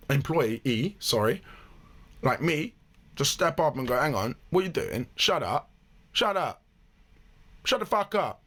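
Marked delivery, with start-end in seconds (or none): 4.0-8.4 acted confrontation. Acts out stepping up to Karen.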